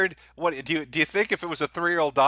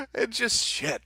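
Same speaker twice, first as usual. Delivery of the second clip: laughing disbelief; 8 semitones higher, slower than usual. Real, not acted. Laughing at the videos.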